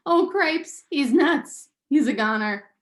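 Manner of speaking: alarmed mouse. Acted. Furlough panics about his brother, loud and squeaky. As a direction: blurt it out in a rush of alarm.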